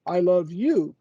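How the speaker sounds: "you" weighted and falling; single out "you" in "I love you"; stress on you. Shown as a demonstration. Showing only you are loved, stress on "you". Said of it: "I don't love your neighbor".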